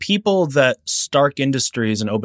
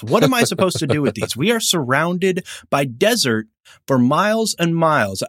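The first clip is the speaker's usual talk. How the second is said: mock complaining customer; 5 semitones higher than usual. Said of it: "but I'm imagining Raza or somebody calling".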